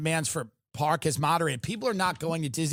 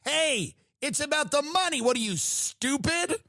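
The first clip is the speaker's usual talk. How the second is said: higher mock Southern senator; Lindsey Graham impression; 7 semitones higher than usual. Graham waving off critics, hammed up. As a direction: brush them off, hammed up. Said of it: "he is out there basically saying".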